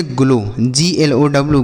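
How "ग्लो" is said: "ग्लो" ending in a long o; ow read as o. Shown as a demonstration. Teacher shows the exception, "ग्लो" ending in o. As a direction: model "ग्लो" with o, avoiding au. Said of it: "इसे पढ़ेंगे".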